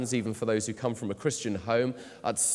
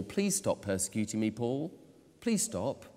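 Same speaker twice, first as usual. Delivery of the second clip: soft, weak pleading, quieter; a softer, begging take of the question; enfeebled pleading Jesus; 5 dB quieter than usual. Shown as a demonstration. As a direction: plead feebly, as the wrong reading. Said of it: "we kind of read an enfeebled Jesus pleading with Saul".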